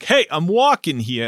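put-on Brooklyn accent. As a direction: toss off a quick mock Brooklyn line. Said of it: "that horrible Brooklyn accent".

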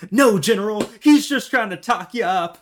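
high, squeaky Southern hillbilly voice; Southern hillbilly accent. Retold or imitated. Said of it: "your Southern hillbilly accent".

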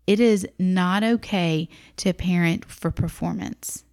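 slow, firm and stern. Shown as a demonstration. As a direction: lay down the rule sternly, word by word. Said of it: "That's me being stern in this podcast".

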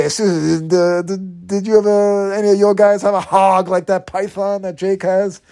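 mock Vince fishing for a dirty laugh; Vince impression. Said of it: "Vince trying to say".

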